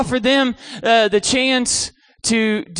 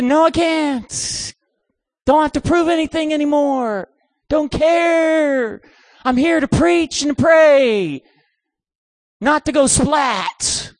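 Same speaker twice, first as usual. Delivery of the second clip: higher-pitched, drawn-out protest; mock protesting refusal; 4 semitones higher, slower than usual. Preacher refusing campers' dare, acted protest. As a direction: plead your way out, stretching the words.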